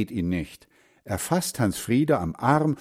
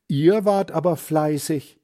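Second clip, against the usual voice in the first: higher, louder glad praise; praising grandmother; 6 semitones higher, 4 dB louder than usual. A narrator's reading. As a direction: praise them, pleased. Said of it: "ruft sie".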